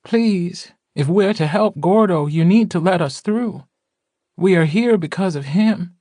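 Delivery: high, insistent character voice; shrill voice. A narrator's reading. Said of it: "a shrill voice called".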